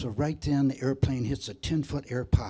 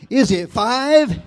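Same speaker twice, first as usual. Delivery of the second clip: higher, slow, laughing through it; a slow dumb guess, cracking up; laughing punchline; 9 semitones higher, 10 dB louder, much slower than usual. Retold or imitated. Hillbilly guesses the chicken count, laughing slowly.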